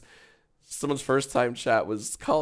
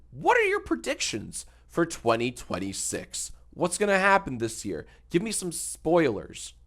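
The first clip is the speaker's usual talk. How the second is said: YouTuber voice; 6 semitones higher than usual. Acted. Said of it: "Do you always talk like a radio host".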